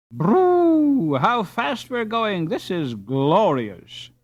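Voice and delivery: very high burst, then slow delighted words; thrilled cry. A narrator's reading. Boy on the racing ice boat, thrilled. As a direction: revel in the rush of wind.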